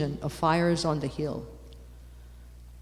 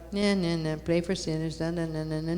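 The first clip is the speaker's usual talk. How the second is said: dismissive mock drone; 3 dB quieter than usual. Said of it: "it sounds like very vanilla".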